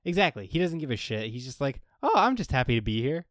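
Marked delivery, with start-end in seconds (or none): 2.0-3.3 lightly voiced carefree simpleton, a bit louder; happy-go-lucky fool. Co-host mimicking the show's fool, lightly happy-go-lucky. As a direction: imitate a cheerful, oblivious guy. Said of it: "he's like the very happy, like, happy-go-lucky".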